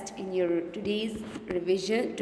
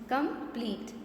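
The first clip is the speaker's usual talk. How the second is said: "Complete" broken as com, plete; teacher separating both halves of "Complete"; split into syllables; 3 semitones higher, 3 dB quieter than usual. Shown as a demonstration. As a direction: say "Complete" in two distinct beats. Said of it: "How many syllables?".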